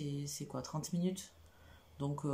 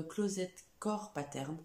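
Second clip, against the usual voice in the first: English accent; 3 semitones higher, slower than usual. Shown as a demonstration. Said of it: "vous admirez mon accent toujours".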